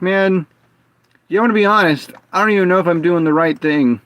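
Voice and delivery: imitating himself, candid and unsure; retold sheepish admission. Retold self admitting confusion.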